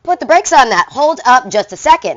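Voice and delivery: loud, high "whoa, put the brakes on"; mock alarmed colonist crying whoa; colonists protesting. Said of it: "the colonists were like".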